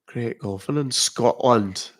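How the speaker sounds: drawn-out Scottish accent; slow Scottish lilt on a short phrase. Shown as a demonstration. Streamer showing viewers a UK accent by country, Scottish accent. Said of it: "What country?".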